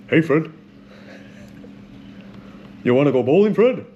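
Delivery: lightly voiced cartoon sidekick, lifting at the end; cartoon character impression. Quiz host playing Barney asking Fred to go bowling, light cartoon impression. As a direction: do a light cartoon pal inviting a friend out. Acting Barney Rubble from The Flintstones.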